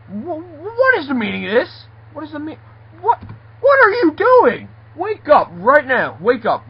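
high, loud scolding, stretched at the peaks; furious wake-up yelling. Acted. Boss waking a sleeping worker, high angry yelling. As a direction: holler to rouse a sleeper, outraged.

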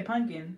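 "pumpkin" said as "punkin"; casual N pronunciation. Shown as a demonstration. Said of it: "I think I say pumpkin".

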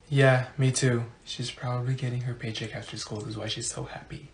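low, very soft gossip; muttered aside. Acted. Classmate agreeing about the happy teacher, low hushed mutter.

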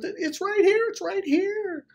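very high mock-panicked voice; frightened pleading. Woman at the desk answering raging Jeff, panicked imitation.

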